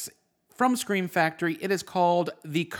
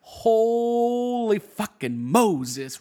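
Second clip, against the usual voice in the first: amazed; 5 semitones higher, 5 dB louder, much slower than usual. Real, not acted. Amazed at the director's name.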